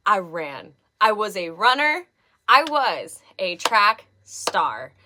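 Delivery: breathless after running; panting, short of breath. Real, not acted. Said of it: "I'm a little out of breath".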